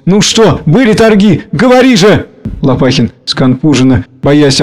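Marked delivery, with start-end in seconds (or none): 0.1-2.3 high, urgent pleading; anxious. A narrator's reading. Lyubov demanding news of the auction, in an anxious high voice. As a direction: press him for the news. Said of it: "волнуясь".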